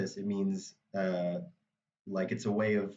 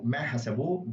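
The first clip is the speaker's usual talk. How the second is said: hasabu with final -bu stressed; stress on last syllable. Shown as a demonstration. Teacher applies the tip, last syllable of hasabu stressed. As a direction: lean on the end of hasabu. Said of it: "If you can pull this off".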